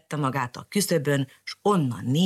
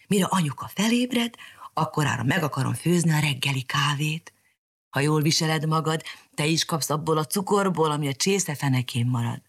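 lightly voiced girl; 2 semitones higher than usual. Mariska promising the canary coffee, light girl voice. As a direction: promise it eagerly.

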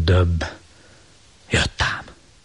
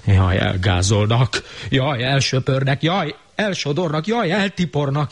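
rising frightened wail; 7 semitones higher than usual. Acted. Monster wailing in fear of being trampled.

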